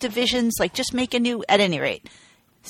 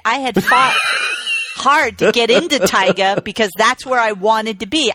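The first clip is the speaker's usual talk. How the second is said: indignant. Real, not acted. To her co-host about being moved leagues, half-shouting. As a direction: push it out like you were robbed.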